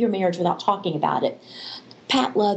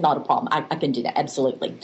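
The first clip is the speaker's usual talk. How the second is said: lightly voiced husband, lower; easygoing husband agreeing, a little lower; a hint of the husband, pitched down; husband's voice; 4 semitones lower, much faster than usual. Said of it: "He said".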